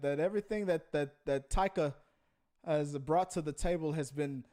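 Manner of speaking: wandering, badly faked Aussie accent; halting attempt at an Australian film star, losing the accent; Chris Hemsworth. Co-host as the thunder god praising his director, faltering Aussie accent. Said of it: "Apparently, Chris Hemsworth traveled a lot as a kid".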